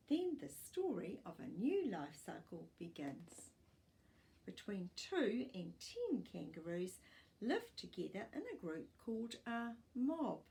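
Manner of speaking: put-on clear, even storybook reading for young pupils; reading to children. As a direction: read it like a class picture book. Teacher reads picture book aloud.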